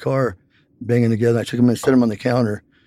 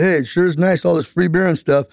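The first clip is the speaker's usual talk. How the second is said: higher, half-shouted call into an empty room; retold yell; 7 semitones higher than usual. Calling into the empty store to find the clerk, raised high voice. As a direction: call out for a clerk who isn't there, pitched up. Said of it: "I yelled, I said".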